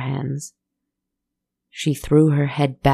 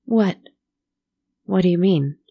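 put-on higher, alarmed young girl; startled girl's higher outcry; girl cries out; 4 semitones higher than usual. A narrator's reading. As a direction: blurt it out in fright. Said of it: "the girl cried out".

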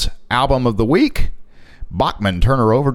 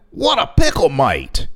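put-on Australian accent. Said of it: "doing the Australia accent".

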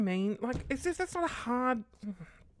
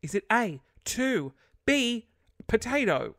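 mock dumb quiz; 5 semitones higher, 6 dB louder than usual. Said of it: "you go through".

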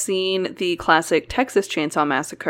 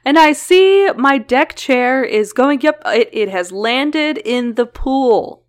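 weather reporter voice; 5 semitones higher, 3 dB louder than usual. Pretend. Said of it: "pop into my weather reporter voice".

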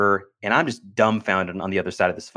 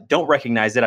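normal talking voice

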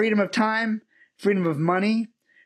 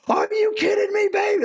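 Dickie V freakout. Retold or imitated. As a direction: shout it like a thrilled announcer who can't believe the news. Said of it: "he's freaking out".

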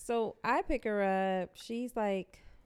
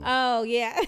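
laughing; 3 semitones higher, 9 dB louder than usual. Real, not acted. Laughs at story.

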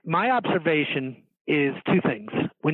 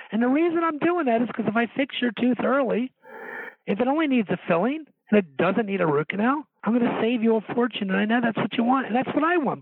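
higher-pitched, earnest promise to a patient; 9 semitones higher than usual. Shown as a demonstration. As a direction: make an earnest, heartfelt case in a raised pitch. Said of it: "If you talk that earnestly to people with that kind of tone in your voice".

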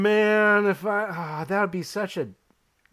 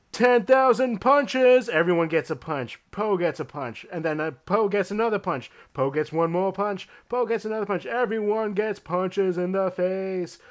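hyped fight promo; 4 semitones higher than usual. Acted. Hyped fight promo as Oprah's manager.

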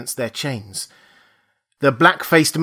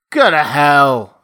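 put-on louder, slow drunken bark; loud drunken retort; 2 semitones higher, 7 dB louder, slower than usual. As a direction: throw it back at him, slow and loud. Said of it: "said the captain loudly".

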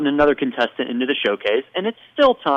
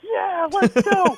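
high, drawn-out mock cheer; slow, high-pitched hype yell, put on; fired-up cheering; much slower than usual. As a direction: imitate pumped-up ballplayers hollering. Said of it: "He's so fired up".

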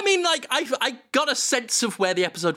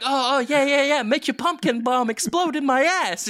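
higher, breathy hammed-up moans; mock moaning Jonathan; 8 semitones higher, 3 dB louder than usual. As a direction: overdo the passion for laughs. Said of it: "He's like".

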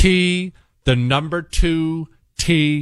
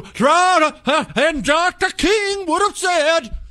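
much higher, slowed put-on oratory; high mock-preacher politician voice; mocking imitation of a politician; 13 semitones higher, slower than usual. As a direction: mimic overblown speechifying, high and drawn out. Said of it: "somebody who talked like that".

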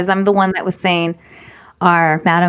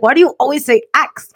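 higher-pitched mild mock scolding; retold exasperation; 5 semitones higher than usual. Teacher mad at a child's word, mild mock exasperation. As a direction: scold as a fed-up teacher, lightly. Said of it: "she was so mad at my ax".

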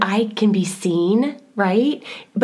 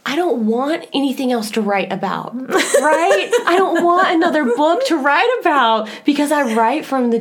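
laughing; 7 semitones higher, 3 dB louder than usual. Retold or imitated. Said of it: "I always tell my husband".

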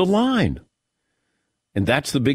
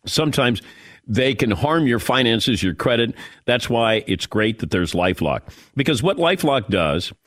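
ad read; 2 semitones lower than usual. Acted. Host reads LifeLock ad.

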